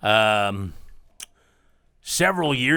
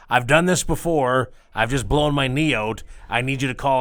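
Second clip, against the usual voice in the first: retold calm voice. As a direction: lightly voice a dancer staying calm. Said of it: "She goes".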